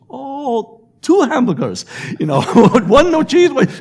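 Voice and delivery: high mock Asian accent, laughing through it; imitating the cashier again with a high, stereotyped Asian accent; cashier's accent. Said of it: "She goes".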